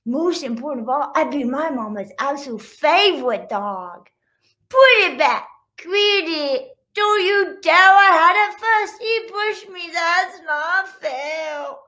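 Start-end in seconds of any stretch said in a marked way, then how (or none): 4.7-11.8 high, loud whiny squabble; squabbling kids. Acted. Little sister fights her brothers, loud whining. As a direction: whine and shout like the youngest.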